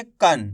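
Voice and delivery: कन said with a half na at the end; कन as k plus short a plus nasal n; teacher sounding out. Shown as a demonstration. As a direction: sound out कन slowly and clearly. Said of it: "अपन का का उच्चारण कैसे करेंगे".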